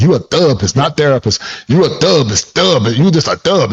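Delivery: put-on Southern-accented voice. Retelling what his mother used to say about him, imitating mom's Southern accent. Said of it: "in her Southern, um, uh, accent".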